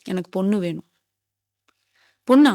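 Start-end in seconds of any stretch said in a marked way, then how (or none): none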